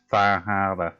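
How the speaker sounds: slow Boston accent, dropped R in Harbor. Shown as a demonstration. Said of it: "I can only say one thing with a, like, a Boston accent".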